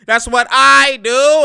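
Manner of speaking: high, loud, slow brag; mock player boast. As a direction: stretch it out like a cocky hooper. Mimicking player's celebration.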